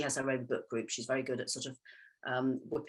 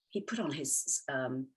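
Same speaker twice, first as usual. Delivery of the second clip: lightly imitating an American asking, rising high at the end; hint of American accent, high questioning end; mock American puzzlement; 5 semitones higher, slower than usual. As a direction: playfully voice a baffled American student. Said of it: "They'll say".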